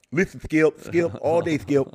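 lightly imitated lisping sports pundit; Shannon Sharpe. Sports pundit insisting to Skip, lisped impression. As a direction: lisp the S sounds like the pundit. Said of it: "I was doing Shannon Sharpe".

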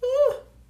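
loud, high intake of breath; sudden dramatic gasp; sharp gasp. A narrator's reading. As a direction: gasp in big surprise. Reader gasps in the story.

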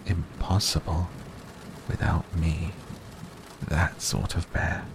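mild private pride; proudly to himself. A narrator's reading. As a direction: murmur it, pleased with yourself. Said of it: "said proudly to himself".

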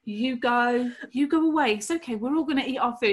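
reverse psychology. Retold or imitated. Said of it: "the whole reverse psychology thing".

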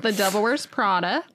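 title echoed with an affected "Prada"; imitating odd Prada. Co-host trying the title, imitating the odd accent. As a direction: copy the weird accent on "Prada". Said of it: "why you say it like that".

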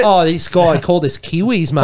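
put-on Aussie grumble; hammed-up Australian accent, mock-offended. Imitating offended locals for his friends, Australian accent. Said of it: "How long have I been doing this accent".

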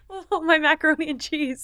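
mock him like a little kid whining over his food; whiny toddler. Teasing a crying date as a toddler, lightly whiny high voice. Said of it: "He's like a little toddler".

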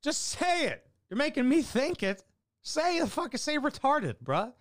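very high-pitched, straining heckle; acted high-pitched goading; exasperated heckle. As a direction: egg them on in a squeaky high voice. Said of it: "I almost wanted to fucking heckle".

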